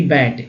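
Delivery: बैट with an open "ae" vowel; short-vowel pronunciation. Shown as a demonstration. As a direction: say बैट like English "bat". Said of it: "ए का उच्चारण यहाँ पर ये हुआ".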